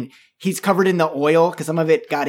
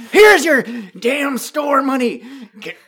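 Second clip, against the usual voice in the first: gruff shout; 8 semitones higher, 4 dB louder than usual. Acted. Dak throws money, shouting.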